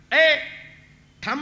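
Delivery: loud, abrupt hail; calling out. Acted. Child Krishna hailing the departing fruit seller, calling out. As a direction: call after someone walking off. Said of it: "भगवंतानी हाक मारली".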